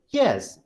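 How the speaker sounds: YES swung in pitch to show agreement; agreeing tune on YES. Shown as a demonstration. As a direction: concede with a swinging YES.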